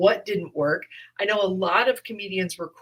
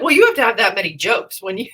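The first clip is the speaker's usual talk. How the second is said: quick, louder protest with a laugh; 3 semitones higher, 8 dB louder, faster than usual. Retold or imitated. Comic answering a mentor's advice, laughing protest. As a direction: laugh it off in disbelief. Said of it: "And I was like".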